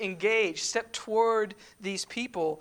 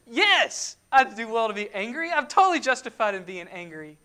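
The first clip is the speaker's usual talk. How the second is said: stubborn reply; 6 dB louder than usual. Retold or imitated. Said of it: "amazingly stubborn".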